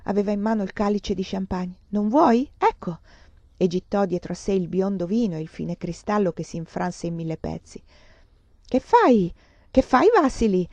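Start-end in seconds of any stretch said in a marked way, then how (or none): 1.9-3.0 defiant. Acted. Vasily defiant, throws glass. 8.7-10.7 laughing shout. Acted. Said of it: "gridò ridendo Grigorevsky".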